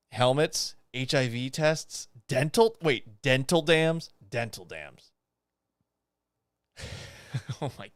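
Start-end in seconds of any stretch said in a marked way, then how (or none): 2.8-4.1 rising, disbelieving question, slowed; surprised double take. Real, not acted. Reading absurd supply list aloud. 4.3-5.1 dropped low and soft, flat statement; lower, quieter deadpan echo; deadpan repeat. Real, not acted. Repeating item flatly after surprise.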